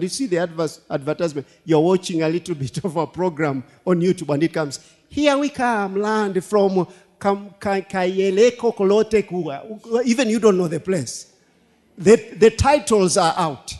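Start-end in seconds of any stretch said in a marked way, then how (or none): 5.1-9.6 mock a pushy land advert. Preacher mocking a land sale advert, hammed-up.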